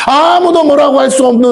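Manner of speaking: high, crying exhortation from the pulpit; impassioned preaching. Real, not acted. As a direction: cry out in indignant reproach to the church. Preacher's indignant peak about the building. (높은 음으로 부르짖듯 열띤 설교)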